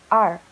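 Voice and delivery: a clear, drawn R; R said slow and clear; model R. Shown as a demonstration. Teacher modelling R for the class to repeat. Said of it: "repeat after me".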